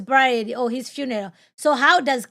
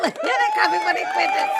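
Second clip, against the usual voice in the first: said through high laughter; laughing. Real, not acted. Host laughs at people clapping for Fuentes. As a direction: laugh the words out in disbelief.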